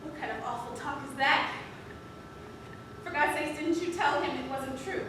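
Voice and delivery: soft, restrained acted dialogue; hushed stage drama.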